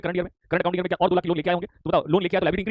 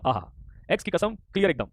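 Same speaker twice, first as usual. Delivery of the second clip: quoting a catchy line; slower than usual. Retold or imitated. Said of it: "Gaurav Singh ने dialogue मारा है".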